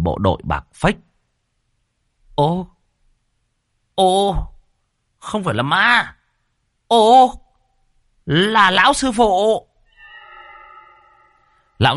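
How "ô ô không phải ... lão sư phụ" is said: put-on higher, surprised old man's voice; startled old man. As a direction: recognize the master with a start.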